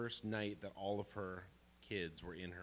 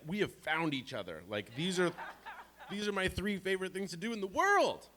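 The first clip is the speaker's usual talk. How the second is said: much higher and louder, thrilled; overjoyed exclaim; 11 semitones higher, 9 dB louder than usual. Real, not acted. Grandson delighted grandma shares his favorite things, excited exclaim. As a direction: gush like you found a soulmate. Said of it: "excited exclaiming reaction".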